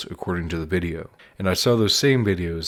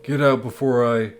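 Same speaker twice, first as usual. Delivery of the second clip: loud angry threat; angry shout; 5 semitones higher, 4 dB louder than usual. Acted. Junior threatens puppet.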